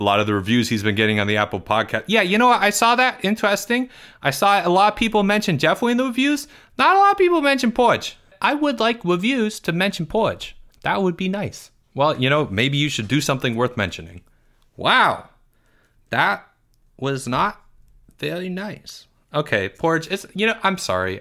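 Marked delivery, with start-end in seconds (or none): 2.1-11.7 put-on whiny, higher kid voice with big complaints; Porge. 14.8-21.2 put-on whiny, higher kid voice with big complaints; Porge. Porge hurt.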